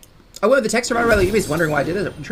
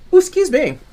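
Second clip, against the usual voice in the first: hiccup squeak, then an apology; 11 semitones higher, 4 dB louder than usual. Real, not acted. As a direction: hiccup on the ooh, then excuse yourself. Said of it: "Now I got the hiccups".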